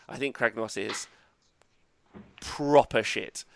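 hushed, unvoiced build-up before the verdict; conspiratorial whisper. Real, not acted. Whispering to co-host before trashing Kragnos. Confiding a harsh opinion.

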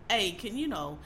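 quiet, even and patient, no edge at all; calm request. Retold or imitated. Speaker retelling a calm complaint to a friend, calm and even. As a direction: lay out the complaint gently and calmly. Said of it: "I said that really calm to you".

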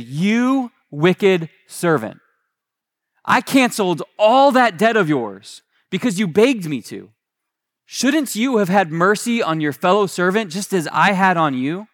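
mildly indignant reading of the master's rebuke; understated anger, pitch lifted; angry master. Acted. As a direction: rebuke the servant with measured anger, stretching the opening words. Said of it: "In his anger, his master".

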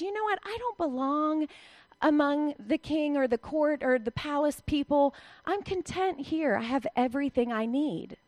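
content woman. Retold or imitated. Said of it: "It's as if she says".

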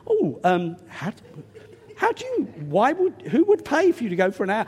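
polite, hesitant asking; courteous question. Retold or imitated. Preacher showing the polite version of his question, hesitant. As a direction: ask gently, picking your words. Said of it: "I said it more courteously".

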